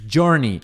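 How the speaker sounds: "journey" as JUR-nee, firmly stressed up front; "journey" ending in a short "nee"; correct "journey". Shown as a demonstration. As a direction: model "journey" with an English "jur". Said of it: "você vai falar".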